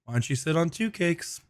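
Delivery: quiet flat monotone delivery; deadpan and even, no lift. Retold or imitated. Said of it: "quiet, monotone voice".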